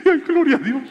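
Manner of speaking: high, loud laughing thanks; father laughing with joy, gloria a Dios; laughing praise. Real, not acted. Laughing joy at son's change.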